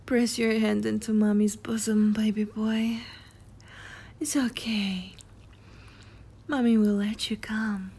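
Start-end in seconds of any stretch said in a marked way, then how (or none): 2.1-7.9 hushed, reassuring ASMR whisper; soothing whisper. Acted. Erotic roleplay, whispered reassurance.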